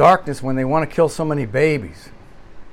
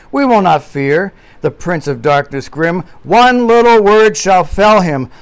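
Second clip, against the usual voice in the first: hymn line recited; 4 dB louder than usual. Retold or imitated. Preacher quoting A Mighty Fortress, declaimed. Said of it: "quoting, of course, from a, a mighty fortress".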